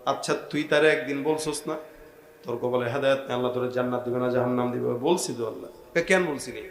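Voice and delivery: low, softened questioning; low-voiced sermon dialogue. Allah questions the pious man, low-voiced sermon dialogue. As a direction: act out a quiet interrogation within the sermon.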